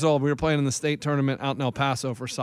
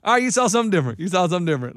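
funny coach voice; 4 semitones higher, 3 dB louder, faster than usual. Retold or imitated. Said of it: "he would say it funny".

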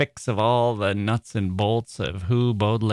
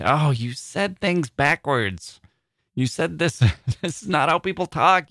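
exasperated complaint; 3 semitones higher than usual. Retold or imitated. Mocking reader reacting to inverted verse.

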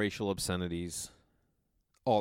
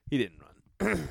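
normal talking voice

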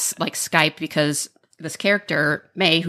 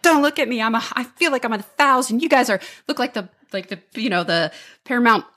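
higher-pitched, mock-dramatic fretting mom; self-deprecating mom; 5 semitones higher than usual. Mom on Skype meeting daughter's girlfriend, fretting in a raised voice. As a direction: fuss like a mother who hates being on camera. Retelling Lisa Kudrow's mom character.

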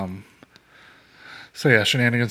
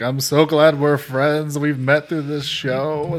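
slow, high and gushing; mock tearful gush; 5 semitones higher, 5 dB louder, much slower than usual. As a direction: drag it out like a weepy drunk friend.

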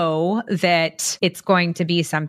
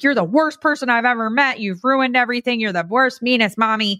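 put-on higher whiny toddler accusing; a child's sulky outburst, pitched up; mock tantrum; 5 semitones higher than usual. A toddler yelling at mommy, mock higher tantrum. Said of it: "Or they're like".

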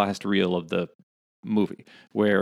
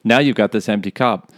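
Shark Tank pitch; 4 dB louder, faster than usual. Pretend.

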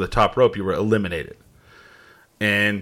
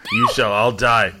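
put-on French accent. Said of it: "I can't do a French accent".

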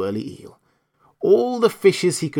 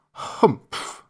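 breathy, unvoiced disdainful grunt; a lazy camel snorting contempt; grumpy camel humph; 4 semitones higher than usual.

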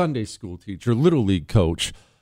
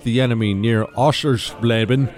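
formal citation reading. Acted. Reads Medal of Honor citation.

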